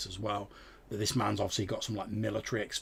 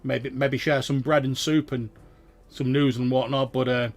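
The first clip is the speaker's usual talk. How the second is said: higher, louder sly farmer sizing up strangers; cagey farmer, raised voice; wary farmer; 4 semitones higher, 7 dB louder than usual. Acted. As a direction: draw it out like a suspicious old farmer.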